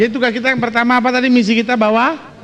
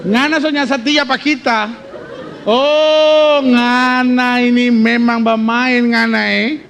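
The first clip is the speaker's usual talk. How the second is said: jealous wife; 3 semitones higher, slower than usual. Acted. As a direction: accuse him, voice up and teasing. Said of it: "Dia mulai bilang".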